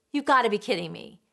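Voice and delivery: scolding. Retold or imitated. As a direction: scold the child in exasperation. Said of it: "they're scolding that feeling".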